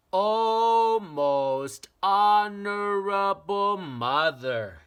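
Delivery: put-on high, slow, urgent child's voice; a small boy begging his mother to listen; little boy pleading.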